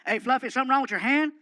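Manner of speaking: loud, barking tough-guy voice; gruff Stone Cold voice. Retold or imitated. Wrestler calls to Fluffy from his door, loud gruff bark. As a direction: play the brash wrestler calling out. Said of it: "he goes".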